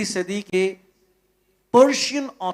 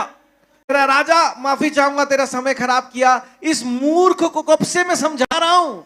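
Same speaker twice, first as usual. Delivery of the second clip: higher, pleading donkey voice, lightly voiced; a foolish donkey whining to the king; donkey's voice; 5 semitones higher than usual. गधा राजा से शिकायत करते हुए, ऊँची ढीठ आवाज़ में.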